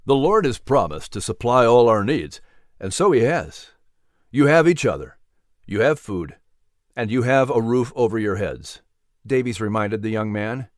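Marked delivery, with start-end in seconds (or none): 0.1-8.8 gentle reverend voice. Acted. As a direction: comfort a grieving young man. Reverend reassuring.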